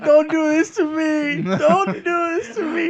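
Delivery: slow, drawn-out mock plea; teasing tearful imitation. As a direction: mimic a friend's weepy plea, dragging each word. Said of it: "And John's like".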